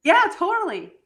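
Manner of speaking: high, loud laughter through the words; laughing hard. Real, not acted. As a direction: crack up at the joke. Bursts out laughing at the comparison.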